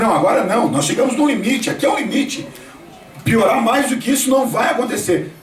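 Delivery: insisting with rising pitch; acted insistence. Acting someone sure it cannot worsen. (insistência encenada, em tom mais agudo)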